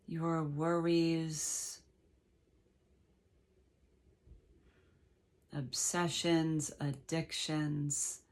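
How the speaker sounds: slow, unhurried meditation guide with long pauses; measured meditation voice, leaving space between phrases; guided meditation. Real, not acted. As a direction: gently lead listeners into letting go.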